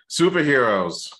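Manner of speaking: slow, loud topic announcement; announcer voice. Pretend. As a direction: boom it out like a show host.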